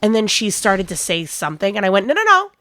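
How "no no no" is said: loud, high run of no; firm cutoff. Retold or imitated. Manager cutting off a rude customer with a loud, high no, no, no. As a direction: shut her down with a sharp no, no, no.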